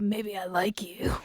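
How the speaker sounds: soft breathy whisper, low; whispered flirt. Retold or imitated. Retelling the show's close-up scene, whispered flirt line. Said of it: "And he's all like".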